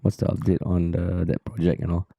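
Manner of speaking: lightly mock a friend's flat, sad tone; half-hearted impression of a low, glum colleague; imitating Terrence. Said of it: "start talking like Terrence".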